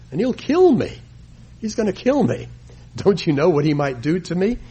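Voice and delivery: high, panicky pleading; a servant terrified for his life; frightened. Acted. Obadiah fears Ahab will kill him.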